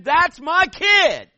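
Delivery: high, loud, slow proud mother; proud mom. Retold or imitated. Mom at the Eagle Scout ceremony showing off her son, high and loud. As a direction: announce your son to everyone. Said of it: "She's just saying".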